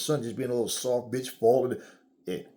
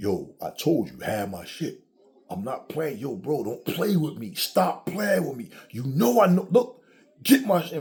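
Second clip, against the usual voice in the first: hard-line, tough man-to-man talk. Retelling a movie scene with a man on the phone: imitating a deep-voiced man. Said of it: "he had a deep voice".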